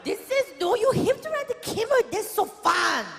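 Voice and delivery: high, cheerful mock guide; pushy tour guide voice. Guide telling mom she must ride, mock cheery insistence. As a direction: chirp it like a bossy guide.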